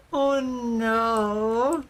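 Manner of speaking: a drawn-out, dismayed moan; real dismay, a little tearful; sad. Real, not acted. Player realising wasted effort in the game, sad. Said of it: "I'm so sad".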